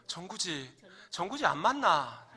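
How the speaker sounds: swooping Gyeongsang dialect protest. Acted. Shot soldier protests while falling, Gyeongsang dialect. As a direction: protest in Gyeongsang dialect, rising to a loud finish. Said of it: "경상도 버전입니다".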